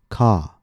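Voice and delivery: "ka" with a long vowel; lengthened stressed syllable. Shown as a demonstration. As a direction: hold the vowel of "ka". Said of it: "the vowel is longer".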